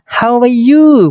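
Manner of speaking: a hint of an eager friend asking; friendly greeting. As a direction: call out the greeting brightly. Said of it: "kata orang pertama".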